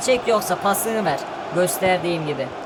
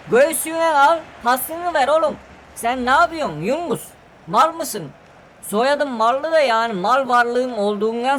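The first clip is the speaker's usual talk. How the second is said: angry yell; 4 semitones higher than usual. Acted. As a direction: shout at a careless teammate. Yelling at teammate Yunus.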